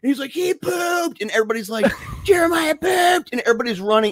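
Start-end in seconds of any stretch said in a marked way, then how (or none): 0.3-1.2 high-pitched tattling cry; mock horrified announcement. Storyteller as Gabriel telling the class, horrified high cry. 2.2-3.3 high, drawn-out schoolkid announcement; mock scandalized cry. Storyteller as everybody in class, scandalized high cry. Acting out classmates all crying out.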